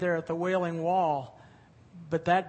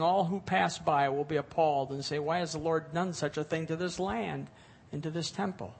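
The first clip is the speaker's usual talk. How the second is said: measured, solemn reading of God's words; scripture reading. Acted. Preacher reading God's warning to the congregation, solemn.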